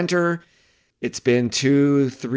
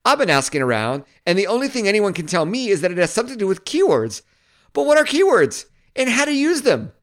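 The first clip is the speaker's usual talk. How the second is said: a hint of Seinfeld, rising to much higher whiny questions; Seinfeld-esque read; 6 semitones higher than usual. Vlogger reading AI text for viewers, lightly Seinfeld-style questioning. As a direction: read it like a baffled Seinfeld bit that climbs higher. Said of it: "The third one is more Seinfeld-esque".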